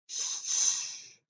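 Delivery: soft, voiceless shushing; whispered hush. A narrator's reading. Grandmother shushing her grandson, whispered. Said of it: "she whispered".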